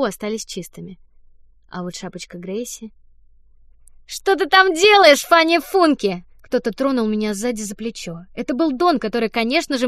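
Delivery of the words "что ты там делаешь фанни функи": higher, louder and slow, teasing; sly boy voice. Acted. Don catches Fanny in the act, slow teasing call. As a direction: drawl the name out like a little trickster.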